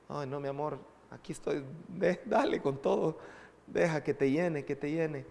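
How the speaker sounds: tender comfort. Retold or imitated. Father comforts crying daughter.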